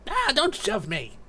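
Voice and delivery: high, slow protesting captive voice; shoved captive. Acted. Blindfolded captive being shoved along, high drawn-out protest. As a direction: protest in a high-pitched character voice.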